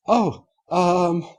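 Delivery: high, hesitant um; flustered Rarity. Acted. Rarity stalling before the customer, high and flustered.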